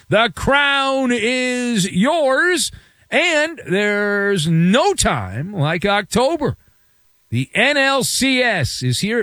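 stretched, punched key phrases; promo read. Acted. Sponsor and game promo read.

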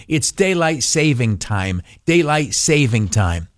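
correcting pedant. Retold or imitated. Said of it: "they very quickly will correct you".

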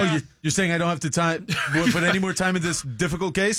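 high-pitched feigned surprise at being let off; mock delighted relief. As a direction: play the gladly relieved cop. Joins the happy-cop skit.

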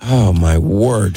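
slow, stuffy-nosed groan; stuffed-up sigh through a cold; nasal voice. Real, not acted. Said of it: "We hear it through your nose".

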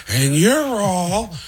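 building Pacino outburst; Al Pacino shouting. Acted. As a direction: stretch it into a big Pacino climax. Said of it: "they cut to me as Al Pacino".

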